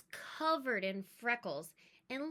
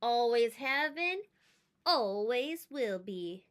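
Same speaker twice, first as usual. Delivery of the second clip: sneering; 4 dB louder than usual. Acted. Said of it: "he sneered".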